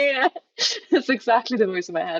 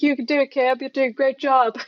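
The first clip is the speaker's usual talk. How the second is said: higher put-on pep-talk voice; chirpy self-encouragement, pitched up; encouraging inner voice; 5 semitones higher than usual. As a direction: cheer yourself on in a little character voice. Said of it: "you did put on a voice".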